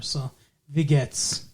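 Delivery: slow "wie geht's" with a German v; German greeting. Pretend. Host greeting German listeners, slowly in German. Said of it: "a high German contingent out there".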